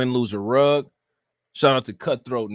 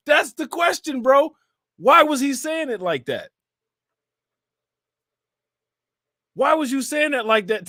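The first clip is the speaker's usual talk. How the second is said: high-pitched, on the edge of laughter; amused incredulity; 11 semitones higher than usual. Real, not acted. Streamer asking why a reverend said it so, amused incredulity. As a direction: ask it high, baffled and tickled.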